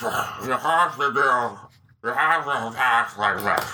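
slow, lightly voiced bossy director; a hint of a Jabba-like director; George Lucas impression. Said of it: "Your George Lucas is borderline Jabba".

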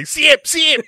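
high yelping chant; mock war cry. Cohost repeating the movie's war cry, high mock yelp. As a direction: echo his cohost's silly battle cry. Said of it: "that's just his war cry".

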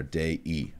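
"Dei" as DAY-ee, two beats; two-syllable Dei. Shown as a demonstration. Teacher repeats the correct form, two syllables. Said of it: "There are two syllables there".

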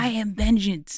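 gravelly Batman imitation. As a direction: growl it like the Dark Knight. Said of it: "It was his voice for me".

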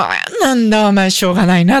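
a hint of an old grandfather; lightly voiced grumbling old grandpa; indulgent grandpa.

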